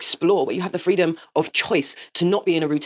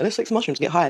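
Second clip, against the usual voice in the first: mock-casual quote. Mocking a recreational user's attitude.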